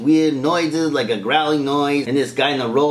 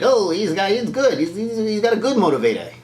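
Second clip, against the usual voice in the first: mock vouching; 6 semitones higher than usual. Voicing Luke vouching for droid.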